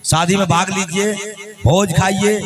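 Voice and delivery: even, chanted town-crier announcement; royal proclamation. Acted. Soldier invites everyone to the king's wedding, proclaiming. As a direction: list each invitation in the same singsong call.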